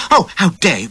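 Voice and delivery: high, loud repeated outrage; outraged squeal. A narrator's reading. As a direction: keep squealing in horror. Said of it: "she squealed".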